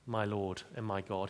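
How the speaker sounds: low, soft, reverent "My Lord and my God."; addressing Jesus. Shown as a demonstration. Thomas speaking to Jesus, soft and low. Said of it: "he was speaking to Jesus".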